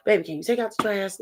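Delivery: sweet, easy ask with no edge; calm polite request. Retold or imitated. Wife asking her man to take the trash out, calmly. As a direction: ask nicely the first time. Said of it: "we said it calmly the first time".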